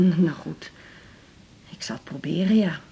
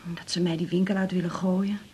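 hushed; 6 dB quieter than usual. Acted. Mother confiding about father's worries.

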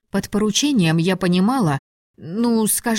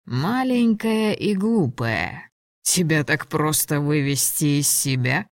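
lightly voiced condescending dragon; amused, mocking dragon; 2 semitones lower than usual. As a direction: tease her with cool amusement. Ladon mocks her after laughing.

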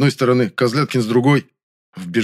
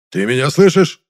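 higher, louder snap; barked question; 5 semitones higher, 6 dB louder than usual. A narrator's reading. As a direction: jolt him awake. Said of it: "рявкнул Большаков".

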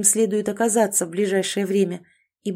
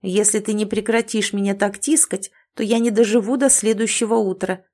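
displeased. Acted. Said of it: "недовольный голос зверька".

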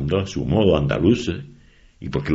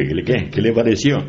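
louder repeated question; 6 semitones higher, 5 dB louder than usual. Retold or imitated. Repeating question to deaf-ish man.

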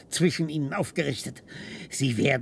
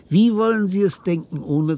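impassioned; 7 semitones higher, 9 dB louder than usual. Acted. Passionate argument.

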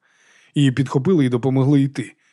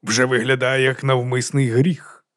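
slow, weighty sermonising; slow moralising pronouncement; preaching tone; slower than usual. A narrator's reading. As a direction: draw out the verdict like a preacher. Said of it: "проповідницьким тоном".

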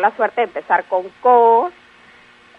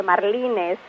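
"marlines" stressed on the middle syllable LI; 5 dB quieter than usual. Shown as a demonstration. Expert on the undisputed plural, middle-stressed "marlines". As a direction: put the weight on LI in "marlines". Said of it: "con el énfasis en la sílaba li".

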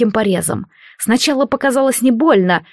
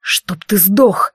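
exhaled curse; much slower than usual. Acted. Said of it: "выдохнул Алистар".

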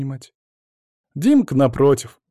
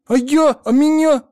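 put-on eager child; 8 dB louder than usual. A narrator's reading. Boy runs after grandpa.

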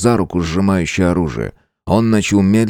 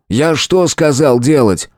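angry question; 5 semitones higher, slower than usual. Acted. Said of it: "Гневно посмотрел на девушку".

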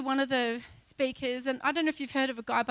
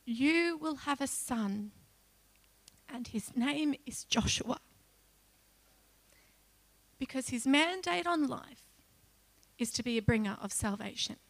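solemn voice of God. Retold or imitated. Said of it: "I heard God say this to me".

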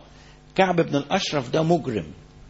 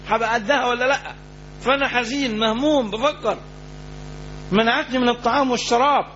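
companion's worried reply; 6 semitones higher than usual. Retold or imitated. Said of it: "فاستدعاه".

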